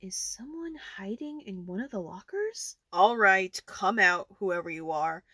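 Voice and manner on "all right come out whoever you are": loud, firm command; calling out. Acted. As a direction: call out to the hidden one. Calling to someone hiding in locker.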